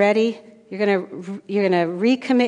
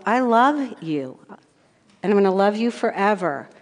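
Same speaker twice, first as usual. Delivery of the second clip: God's loving voice. Retold or imitated. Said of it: "another way to look at it is God saying".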